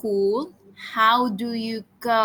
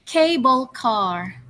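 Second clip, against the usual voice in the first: slow model word; slower than usual. Shown as a demonstration. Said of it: "repeat after me".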